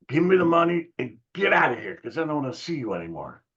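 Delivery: high-pitched imitation of a fed-up seller giving in; begrudging. Seller closing the cheap deal, begrudging imitation. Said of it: "He came back and begrudgingly".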